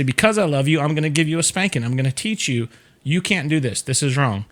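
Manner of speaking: even, matter-of-fact parental explanation; calm parent. Shown as a demonstration. Parent explaining to child before a spanking, calm. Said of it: "This is how I explain to them".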